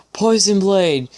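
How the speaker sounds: mock-theatrical shout of the name; dramatic villain call. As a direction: declare the hero's name with mock menace. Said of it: "said dramatically".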